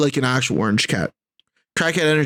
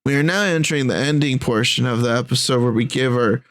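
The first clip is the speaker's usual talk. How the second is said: flight attendant. Acted. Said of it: "Why do you sound like a fucking flight attendant?".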